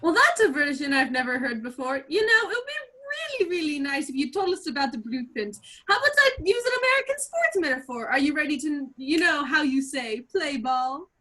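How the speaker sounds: a Russian villain taunting the spy with a sports metaphor; bad Russian accent. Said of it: "He speaks with a bad Russian accent".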